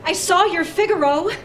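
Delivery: gushing praise through laughter; laughing. Acted.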